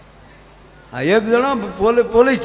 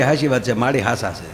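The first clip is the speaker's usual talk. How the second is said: much lower, quieter man's voice; low soft reply; 9 semitones lower, 5 dB quieter than usual. Retold or imitated. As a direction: mumble agreement deep and soft. Bhagabhai answering the old woman.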